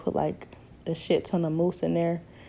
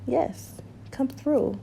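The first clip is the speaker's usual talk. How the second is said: sassy hype; 8 semitones higher, much slower than usual. Real, not acted. Hyping herself, slow.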